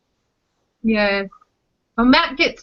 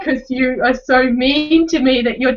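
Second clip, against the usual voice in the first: put-on high, hurt little-kid voice; mock toddler sulk; 5 semitones higher, 3 dB louder than usual. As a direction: play the wronged toddler. Continues toddler voice.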